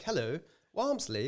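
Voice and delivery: put-on English accent. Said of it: "it's like English accent, tweed".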